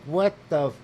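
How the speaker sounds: high, loud cut-off curse; retold yell. Yelling at the driver while filming him, loud and high. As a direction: start to yell, then bite it off. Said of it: "and I'm like".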